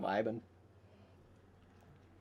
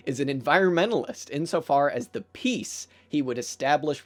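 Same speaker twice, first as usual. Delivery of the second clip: emphatic reading aloud; 2 semitones higher, 6 dB louder than usual. Acted. Streamer reading his favorite bit to viewers, emphatic reading aloud. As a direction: read the passage out with relish.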